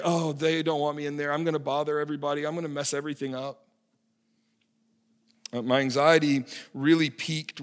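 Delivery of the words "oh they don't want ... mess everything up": anxious inner voice. Retold or imitated.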